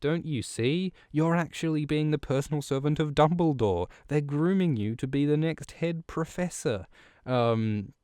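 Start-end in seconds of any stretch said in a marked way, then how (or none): 0.0-6.8 higher, breathless know-it-all; eager Hermione voice. Retold or imitated. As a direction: play a keen schoolgirl setting him straight. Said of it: "and she says".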